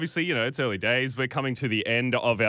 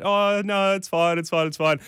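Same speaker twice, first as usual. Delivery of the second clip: higher, louder flustered brush-off; flustered refusal; 6 semitones higher, 3 dB louder than usual. Retold or imitated. Refusing the coffee again, flustered and higher. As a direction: insist it's fine, pitched up. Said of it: "I was like".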